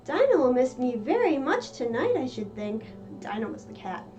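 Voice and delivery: Alice voiced lightly. Alice missing her cat Dinah, lightly voiced fond girl. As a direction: chat fondly to the absent cat.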